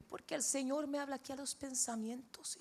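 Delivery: imitating a Brazilian accent in Spanish; father's Brazilian-tinged Spanish. Father explains how God speaks to him, Brazilian-accented Spanish. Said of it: "Un brasilero rajado con, con español".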